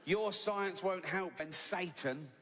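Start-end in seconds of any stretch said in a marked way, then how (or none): 0.1-1.4 "Your science won't help" drawn out slowly, each word weighted; half-mocking menace; slow mock solemn warning. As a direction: intone it like a dire prophecy. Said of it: "He's shouting at me".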